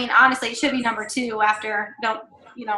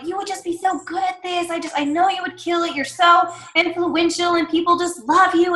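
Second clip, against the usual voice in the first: higher-pitched, gushing coaxing; pushy persuasion; 4 semitones higher than usual. Acted. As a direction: talk someone into it with flattery. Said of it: "really pushing".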